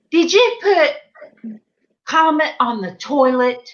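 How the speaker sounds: mock-incredulous question, starting high; retold disbelieving question. Daughter phoning mom about the comment, retold incredulous.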